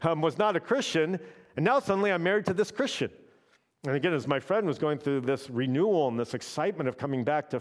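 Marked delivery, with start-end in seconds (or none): 0.0-3.1 higher, rising disbelief, faster at the end; a touch of indignant wife; upset wife. Retold or imitated. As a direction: retell the wife's protest with a half-laugh. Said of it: "She was like".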